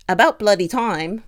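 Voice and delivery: mild put-on British accent; a light British accent on about bloody time. Host quoting a comment in a light British accent. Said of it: "in a very British way".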